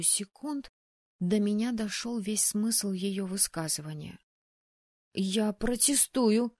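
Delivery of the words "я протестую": high, slow, louder protest; protest, voice catching with nerves; high, breaking with nerves. Acted. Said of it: "Высоким, срывающимся от волнения голосом".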